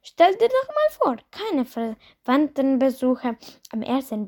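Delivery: a light mother trying to cheer him up; coaxing mother. Acted. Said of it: "sagte seine Mutter".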